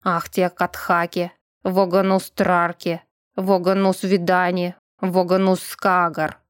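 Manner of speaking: slow, even spell chant; measured ritual recitation; murmured incantation. A narrator's reading. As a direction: intone a summoning spell, slowly and evenly. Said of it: "начал шептать заклинание призыва".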